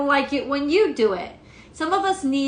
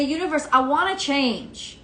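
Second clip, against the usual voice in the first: sincere prayer; 3 semitones higher than usual. Pretend. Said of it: "seriously say".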